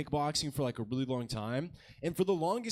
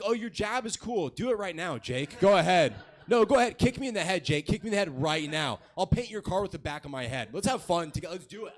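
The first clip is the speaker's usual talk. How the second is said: taunting dare; 3 semitones higher, 4 dB louder than usual. Retold or imitated. Taunting kickboxer Jake to hit him.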